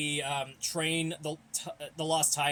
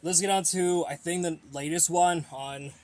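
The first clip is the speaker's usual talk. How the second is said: out of breath; 5 dB louder than usual. Real, not acted. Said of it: "sorry, I am out of breath a little bit".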